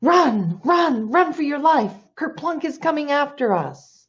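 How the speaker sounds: high, squealed alarm call; urgent, high storybook shout; panicked shouting. A narrator's reading. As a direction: cry out a frantic warning on the run. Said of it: "shouting and snorting and squealing".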